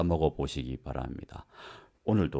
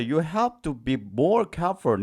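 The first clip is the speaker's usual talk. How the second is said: slow, raised warning sentence; slow example read; 8 semitones higher, much slower than usual. Shown as a demonstration. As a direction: read it slowly as a caution. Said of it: "example sentence read slowly".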